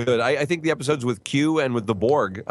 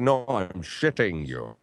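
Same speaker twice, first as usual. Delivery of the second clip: Sean Connery impression; 3 semitones lower, slower than usual. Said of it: "Almost a little Sean Connery".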